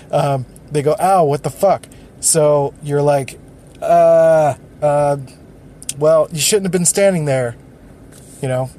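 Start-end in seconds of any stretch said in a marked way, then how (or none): 1.0-1.9 a bit louder, irritated ow and curse; stubbed-toe victim snapping at the other person in annoyance; louder mock angry ow. 3.8-7.5 louder, dismissive excuse with hesitant uhs; the one who stepped on the toe shrugging off the blame, defensive; defensive deflecting. Retold or imitated. Deflecting oppressor retort.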